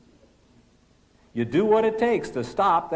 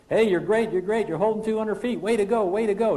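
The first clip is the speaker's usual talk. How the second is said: higher, upbeat encouraging callouts; coaching copilot calling out altitude; 6 semitones higher than usual. Acted. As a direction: cheer the pilot on as the climb holds. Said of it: "The pilot not flying will be saying".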